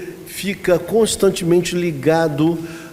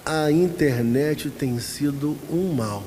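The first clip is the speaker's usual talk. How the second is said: sad confession; 3 semitones lower, 5 dB quieter, slower than usual. Retold or imitated. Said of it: "do nada ele falou".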